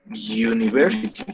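university starting with a Y sound, "yu-ni-ver-si-ty"; teacher showing the spoken form; model pronunciation. Shown as a demonstration. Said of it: "Pero la palabra se dice así".

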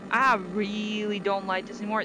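firm, projected complaint; emphatic unease. Real, not acted. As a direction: say it out loud, emphatically. Repeats her unease, now firmly.

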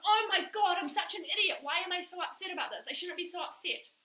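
mildly hammed-up exasperation at oneself; self-scolding. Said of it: "And you tell yourself off".

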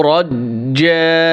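slow, drawn-out tajweed chant; Quran recitation. Shown as a demonstration. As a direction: recite each word with long held vowels. Recites the verse. (ধীরে টেনে টেনে কোরআন তিলাওয়াত)

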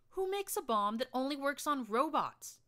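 high, loud indignant scream; screaming back. Acted. Narrator screams back at Glory in outrage, high and loud. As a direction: fire it back at her in outrage. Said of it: "I screamed back at her".

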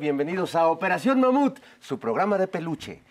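slow radio host welcome. Acted. Radio host opening greeting.

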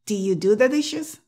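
'do you' with no D before 'you'; D left out. Shown as a demonstration. Teacher giving another contrast example, D left out. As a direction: open 'do' gliding into 'you'. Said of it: "Dilo sin la D".

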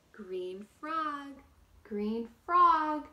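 loud. Acted. Loud repeated story refrain.

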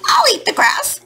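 very high-pitched panicked plea; little storybook lamb begging in alarm; crying out. Acted. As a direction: bleat out a frightened plea. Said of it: "the lamb quickly cried out".

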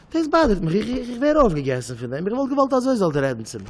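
high-pitched, acted grievance; upset complaint. Hurt man wanting to be talked to, high upset complaint.

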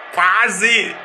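a sudden loud yell of "Quase!"; excited shout. Real, not acted. Shouting at the rival players after a near goal, excited yell. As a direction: yell it as the ball just misses.

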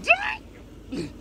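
high shouted yeah and dang; excited shout. Real, not acted. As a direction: yell at the filthy can. Opening trash can, shout.

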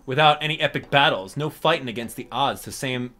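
lightly voiced cranky mole, scolding and sarcastic; a hint of a grumpy mole lecturing; Mister Resetti voice. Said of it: "I do a very good Mister Resetti".

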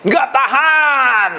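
drawn-out, high-pitched wail; mock scream. The flesh crying out against doing right, mock drawn-out scream. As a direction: stretch it out slowly like a strained cry. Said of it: "daging itu jeritnya keras sekali".

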